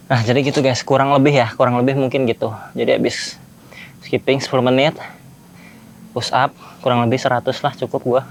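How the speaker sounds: panting between words after push-ups; out of breath. Real, not acted. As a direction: talk while catching your breath. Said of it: "Ini ngos-ngosan buat gua". (ngos-ngosan habis push-up)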